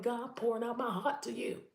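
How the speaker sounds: impassioned plea, pitched high; crying out. Retold or imitated. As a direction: cry out to God from the heart. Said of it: "I'm crying out to God".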